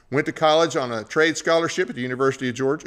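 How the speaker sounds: reads "trade scholarship" by mistake, in a quick run; misread word. Real, not acted. Host reading the guest's bio, misreading the word. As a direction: slips and says "trade" instead of "track", moving fast. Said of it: "excuse me, track scholarship".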